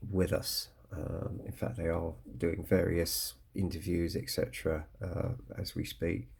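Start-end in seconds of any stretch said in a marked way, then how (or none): 5.7-6.3 croaky voice, a touch of man flu. Real, not acted. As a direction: talk through a croaky, sore throat. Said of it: "excuse my croaky voice".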